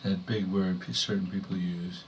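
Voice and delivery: measured poem delivery in short phrases; poetry reading. Acted. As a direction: read a wry poem to an audience, pausing between phrases. Reads own poem to audience.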